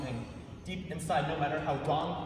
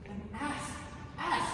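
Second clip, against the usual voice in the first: angry shout; 8 semitones higher, slower than usual. Acted. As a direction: blow up at her. Husband explodes at wife.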